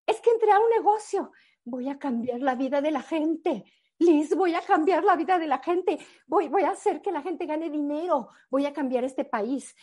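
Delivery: imitating the sister, teary and high-pitched; tearful excitement. Sister swearing to Liz she'll change lives, tearful. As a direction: gush it through tears, voice up high. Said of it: "y lloraba".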